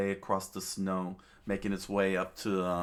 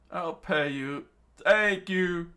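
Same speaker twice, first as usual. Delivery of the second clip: screaming; 11 semitones higher, 8 dB louder, slower than usual. A narrator's reading. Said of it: "the father screamed out".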